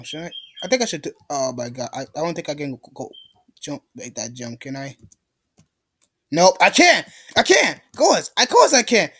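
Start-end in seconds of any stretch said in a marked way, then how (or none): 6.3-9.1 exasperated cry, jumping up on "can't"; real frustration in short, punchy bursts; frustrated outburst. Real, not acted. Player fails a jump in the game, exasperated outburst.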